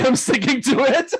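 words breaking into high laughter; real laugh at the punchline. Real, not acted. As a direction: laugh through "I'm sticking to it". Laughing at his own story.

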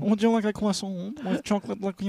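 put-on thick caricature French accent, offering pastry; badly faked French accent; terrible French accent. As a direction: mangle it like a fake Frenchman. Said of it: "worst French accent of all time".

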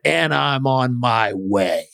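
slow, lightly voiced ominous mother; a hint of a threatening mom; slow, understated ominous mother. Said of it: "in this voice and tone".

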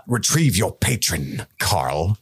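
mildly scornful mock command, measured pace; retold disdain. Corlys to his son's boyfriend, mild retold disdain. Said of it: "Everybody says Carl with disdain".

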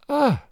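high, short "Ah" as if faint; a swooning "Ah!", pitched high; mild acted groan. A narrator's reading. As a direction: let out a high little cry of faintness. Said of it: "She uttered a groan".

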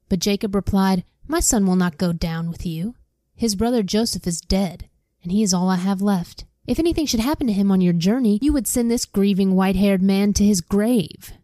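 steady read-aloud storyteller voice; reading scripture aloud to listeners; story narration. Acted. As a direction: read the Bible story to the class. Reads Bible story aloud.

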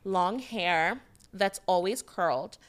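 a hint of prep-school pretty girl; Amanda. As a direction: lightly play a boarding-school girl from Connecticut. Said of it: "pretty girl voice sound like a white girl named Amanda".

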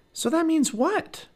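high slow prodding question; probing Annie. Acted. Annie prods Jack to finish his thought, high and slow.

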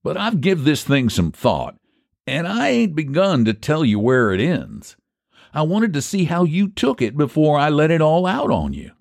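high-pitched country bargainer; folksy haggler Phineas. Acted. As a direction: counter the offer like a stubborn pie man.

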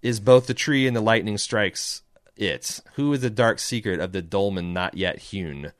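poem recitation. Acted. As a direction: recite it like an ancient incantation.

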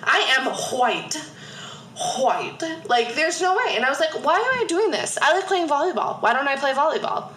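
high-pitched, hammed-up frustrated teen rant; mock teen exasperation. Retelling quitting basketball at thirteen, mock exasperated. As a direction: act out a fed-up young self, pitch climbing.

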